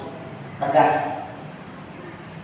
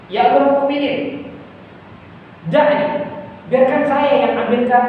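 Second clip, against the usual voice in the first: higher and louder, urgently begging; pleading assistant; 6 semitones higher, 4 dB louder than usual. Retold or imitated. Assistant begging Umar to let him fetch the food, urgent. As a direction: beg the leader to let you go instead.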